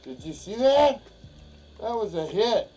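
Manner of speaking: high, loud thrilled exclaim; excited. Real, not acted. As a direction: burst out with excitement. Fish just hit the lure.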